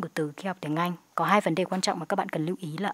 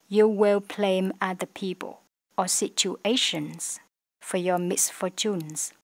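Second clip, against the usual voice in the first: slow, careful English read; slow model reading; slower than usual. Shown as a demonstration. Teacher rereads the sentence slowly to students. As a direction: chunk each phrase clearly. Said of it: "teacher rereads model sentence".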